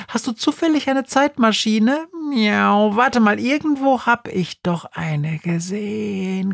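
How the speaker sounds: high, fast-talking meowing cat; chattering cat voice. Acted. Schrödinger the cat pesters Günther, high and chatty. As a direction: babble excitedly like a scatterbrained cat.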